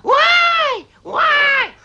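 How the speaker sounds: loud, high, slow wailing; hammed-up dying howl. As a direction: ham up dying. Hare howls mamochki, dying.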